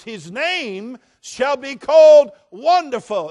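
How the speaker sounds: slow, loud, high pulpit proclamation of the name; ringing proclamation. Acted. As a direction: proclaim it to the rafters. Climactic proclamation of scripture.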